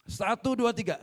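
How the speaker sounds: counting out loud and strong, "dua" hit hardest. Shown as a demonstration. Preacher leads the congregation, counting loudly. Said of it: "yang keras".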